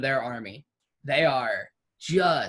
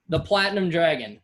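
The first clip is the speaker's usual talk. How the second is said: troops yelling back; 4 dB louder, faster than usual. Acted. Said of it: "And they yell".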